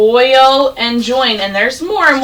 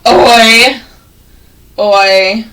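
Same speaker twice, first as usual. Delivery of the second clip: mock annoyed; 4 semitones lower, much slower than usual. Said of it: "he pretends to be annoyed".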